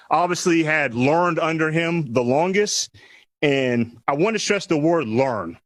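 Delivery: measured press-conference address, pausing between phrases; formal prepared speech. Real, not acted. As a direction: deliver prepared thanks to a room. Reads prepared introductory remarks.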